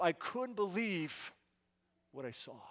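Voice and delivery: hushed awe. Acted. Awed at finding the treasure.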